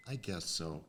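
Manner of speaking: low, soft giving-in; small, low retold reply; imitating reluctant consent. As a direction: agree quietly, as if unsure. Retelling her shy consent.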